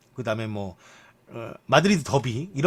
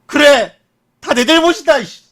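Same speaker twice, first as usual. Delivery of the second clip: hammed-up shout, pitched way up; mock angry outburst; 11 semitones higher, 7 dB louder than usual. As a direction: yell it like a sulking footballer owning the blame. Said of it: "마르셀로가 직접, 음, 대답하길".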